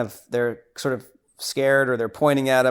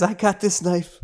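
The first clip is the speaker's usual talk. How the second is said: mock tough-guy line, higher; tough guy quote; 5 semitones higher than usual. Big John bragging to his partner, mock tough. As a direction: play it as a cocky hero with a knife. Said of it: "he says".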